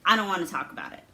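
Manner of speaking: put-on quick, dismissive teen brush-off; typical teenage reply. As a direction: rush it out like an evasive teenager. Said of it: "I responded in a to-, typical teenage way".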